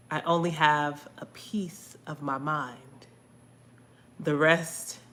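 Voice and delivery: measured spoken-word recital with deliberate pauses; poetry reading, phrase by phrase; spoken-word poem. Acted. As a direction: recite your own poem, weighting each phrase. Reads own poem aloud.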